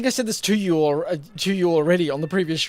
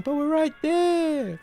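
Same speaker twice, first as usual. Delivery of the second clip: quoting a character; 10 semitones higher, much slower than usual. Retold or imitated. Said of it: "that's when he ends up saying".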